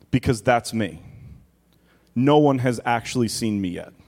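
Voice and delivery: solemn first-person Jesus, measured pauses; voicing Jesus. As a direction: speak as Christ from the cross, gravely.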